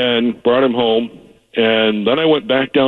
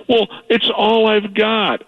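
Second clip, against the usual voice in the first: put-on pitiful old father; 10 semitones higher, slower than usual. Caller voices his elderly dad.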